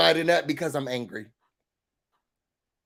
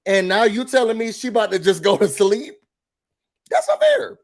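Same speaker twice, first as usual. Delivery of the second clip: mock indignant complaint; 3 semitones higher than usual. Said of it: "And she's like".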